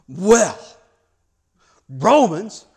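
loud, affronted single-word outbursts; mock indignation. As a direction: play the scandalized bishop, pausing hard between words. James reacting to news of Romans.

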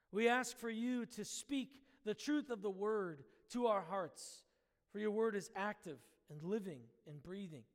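earnest, measured prayer with pauses between phrases. Acted. Leads the congregation in prayer.

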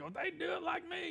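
high, soft mocking imitation of older folks; mock smug voice. Pastor mocking older people's smug assumption, high and light. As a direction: poke fun at their self-satisfied tone.

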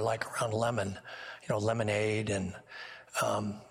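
normal talking voice

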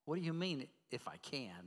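understated challenge, voice sinking at the end; rhetorical question. Acted. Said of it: "That's a question rhetorical".

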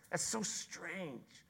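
That's so strange, dropped soft and slow, lingering on so; a quiet, drawn-out awe; slow soft marvel. Acted. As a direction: hush it in wonder. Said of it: "contrasting exclamation".

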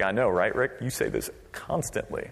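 low, soft knowing murmur; listener's aside. Acted. Congregant to the pastor, muttered weary agreement. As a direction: drop under the breath. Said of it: "You're like".

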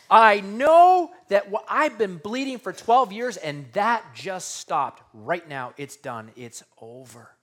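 she can't believe the bleeding stopped; healed woman crying out in amazement; amazed woman. Acted. Woman voiced realizing healing.

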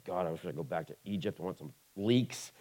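a hint of Israelites moaning for Egypt; grumbling Israelites. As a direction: whine it like a hungry wanderer in the desert. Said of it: "they're just grumbling the whole time".

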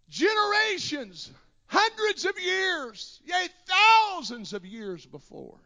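high, loud, fervent preaching shout; preaching at full force. Acted. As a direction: preach it out, building the fire. Preaching climax.

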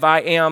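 "I am" set apart and weighted; emphatic I AM. Shown as a demonstration. Preacher showing the Greek idea of "I am", with great emphasis. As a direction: give "I am" firm, declarative weight. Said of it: "stated with great emphasis".

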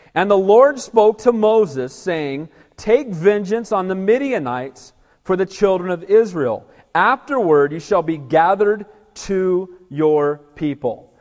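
slow, weighty Bible reading; measured, emphatic proclamation of scripture. Acted. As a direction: read the verse out slowly and firmly. Reads scripture aloud.

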